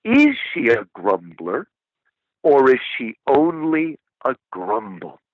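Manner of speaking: a hint of a Scottish guide, gently wise; lightly voiced Scottish brogue for George MacDonald answering Lewis. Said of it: "in his Scottish brogue".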